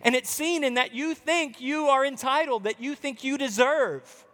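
lightly voiced Jesus, firm and searching; Jesus rebuking. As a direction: plead with the self-righteous to see.

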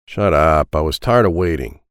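loud low annoyed snap; snapping. Acted. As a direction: shut him down, loud. Felipe snaps at Ed.

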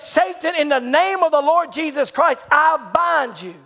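high-pitched, declamatory command; retold commanding rebuke. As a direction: rebuke the devil with authority, slowing at the end.

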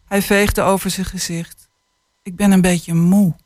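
put-on calm, measured reading of a children's book; unhurried storytelling voice; story reading. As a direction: read it like an author sharing a tender chapter. Author reads passage aloud.

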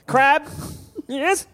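high silly crab voice. Acted. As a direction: squeak it like a crab. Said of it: "do that voice now".

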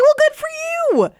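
very high, loud mock congratulations; sarcastic retort. Store worker retelling a reply to a complaining customer, sarcastic. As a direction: squeal it with exaggerated sarcasm.

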